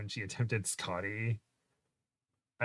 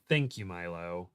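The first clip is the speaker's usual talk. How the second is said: lightly voiced Andrew Garfield; 5 semitones lower, 4 dB quieter than usual. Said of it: "Not in that accent because he's British".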